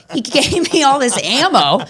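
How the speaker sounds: laughing through the words, high and slow. Real, not acted. Telling viewers about the doorman, laughing gleefully. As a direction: giggle it out, delighted.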